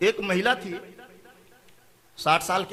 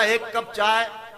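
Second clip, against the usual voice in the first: slow, dragged "एक cup चाय"; weary request; much slower than usual. Acted. Tired husband comes home and asks his wife for tea, slowly. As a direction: ask for tea as if worn out by the day.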